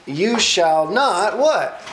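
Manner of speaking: lightly voiced sly serpent; a hint of a scheming snake. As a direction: tempt her, pitch rising on what. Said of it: "He slithers along, he says unto the woman".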